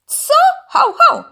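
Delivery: loud, high dog yaps; agitated barking. A narrator's reading. Dog hears the python's accusation, barking upset. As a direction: bark out in indignation. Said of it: "zaszczekał zdenerwowany Urwis".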